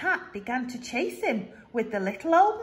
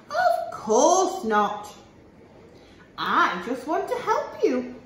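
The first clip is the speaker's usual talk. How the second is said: sly chuckle; 3 semitones higher, 5 dB louder, slower than usual. Acted. Sly fox, laughing.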